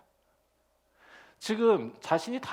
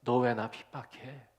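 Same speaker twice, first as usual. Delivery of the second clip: mild rebuke; 6 semitones lower, slower than usual. Retold or imitated. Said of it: "라고 질책하시는 거지".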